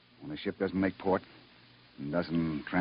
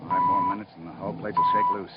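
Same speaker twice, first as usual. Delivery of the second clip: shouting; 5 dB louder than usual. Acted. Captain shouting over shaking hull.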